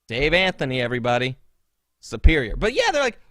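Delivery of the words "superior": loud smug boast. Retold or imitated. Posing as Dave, a loud smug boast. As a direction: announce your own superiority.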